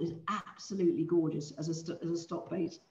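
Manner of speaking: talking through hiccups; words broken by hiccups; hiccuping. Real, not acted. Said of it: "Excuse me, I'm hiccuping".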